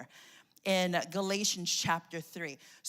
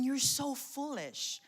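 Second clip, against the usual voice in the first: passionate rebuke; 3 semitones higher, 4 dB quieter, slower than usual. Retold or imitated. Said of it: "He's saying".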